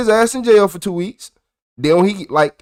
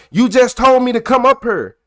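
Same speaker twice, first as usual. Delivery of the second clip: raised and higher, a mild mock yell; retold yell; 5 semitones higher than usual. Yelling behind the principal on the phone, mild mock yell. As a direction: shout it at his back. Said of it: "And I'm behind him yelling".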